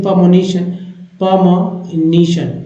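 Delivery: पमोनिशन in a British English accent, second take very slow; English accent, clip it to pa-mo-ni-shun; English pronunciation. Shown as a demonstration. Teacher shows how English people say पमोनिशन, English accent. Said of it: "ऐसे लोग बोलते हैं अंग्रेज लोग".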